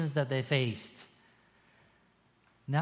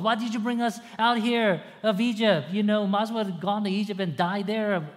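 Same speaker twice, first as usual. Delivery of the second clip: mock grumble; 5 semitones higher than usual. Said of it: "They grumbled".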